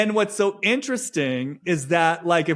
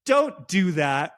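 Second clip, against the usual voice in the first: slow, drawn-out imitation of chiding; patronizing mock reproach, slowly; mock gaslighting; slower than usual. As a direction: stretch each phrase in put-on concern. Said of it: "this is where the gaslighting comes in".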